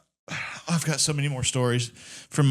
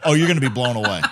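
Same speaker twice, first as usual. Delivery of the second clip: a hint of a coy girlfriend, laughing; coy tease; 4 semitones lower, faster than usual. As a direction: tease him with a secret. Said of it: "she does that coy".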